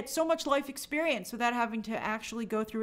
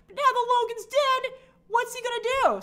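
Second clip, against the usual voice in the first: exaggerated rise; 12 semitones higher than usual. Real, not acted. Worked-up aside about Tom.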